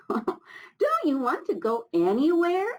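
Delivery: high, slow wondering bird voice; a tiny bird asking eagerly; Hummingbird voice. Acted. Hummingbird asking Old Rock in a high voice. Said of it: "asked Hummingbird".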